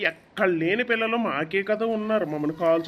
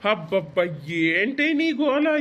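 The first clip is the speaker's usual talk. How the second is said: exasperated; 3 dB louder, slower than usual. Acted. Husband fed up with wife.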